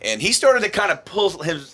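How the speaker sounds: normal talking voice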